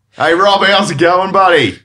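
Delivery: high, loud bogan Australian banter; broad, hammed-up Australian mateship; white bogan Australian. Shown as a demonstration. Two mates greeting each other, broad bogan Australian. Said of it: "white bogan Australian".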